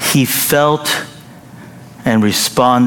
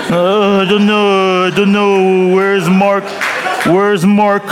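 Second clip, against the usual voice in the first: a lost churchgoer hunting for Mark; mock panic flipping pages; flustered neighbour; 8 semitones higher, slower than usual. Flustered neighbour in Old Testament.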